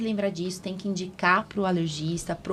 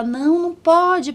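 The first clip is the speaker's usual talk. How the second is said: higher, louder, slower urgent no; alarmed refusal; 8 semitones higher, 7 dB louder than usual. Retold or imitated. Retelling a colleague's answer about a child's eye patches, urgent refusal. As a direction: stop them, it can't wait.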